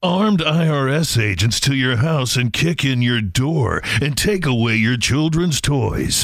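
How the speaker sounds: slow, dramatic political ad read; ominous campaign ad announcer; attack ad voice. Pretend. Mock attack ad on Maddie.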